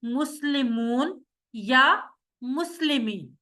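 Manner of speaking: مسلمون then یا مسلمین, stretched very slowly; slow careful contrast. Shown as a demonstration. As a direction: lay out both options. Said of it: "دونوں option سامنے ہیں".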